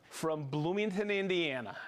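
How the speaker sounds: light Hoosier twang on Bloomington, Indiana; Hoosier accent. Real, not acted. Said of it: "I gave that a Hoosier accent".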